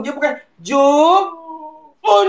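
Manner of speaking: Jepun stretched high with a squeal of laughter; laughing correction. Real, not acted. Teacher cracks up correcting Jepun, high laughing. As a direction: laugh through it while correcting. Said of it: "kan salah sebut".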